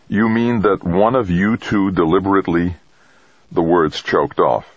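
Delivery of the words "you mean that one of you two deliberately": stunned, higher-pitched hollow question. A narrator's reading. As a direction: ask it in hollow disbelief, unable to finish. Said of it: "Jamie's voice sounded hollow as he said".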